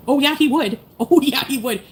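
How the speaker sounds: loud, high, laughing yes he would; a loud laughing oh yeah; laughing sarcasm. Real, not acted. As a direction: laugh it out in disbelief. Sarcastic self-correction, laughing.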